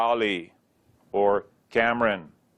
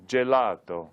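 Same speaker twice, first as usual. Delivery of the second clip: GELATO said the Italian way; Italian-accented demonstration word. Shown as a demonstration. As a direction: say "Gelato" with Italian vowels and a crisp initial j. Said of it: "Italians are famous for art and gelato".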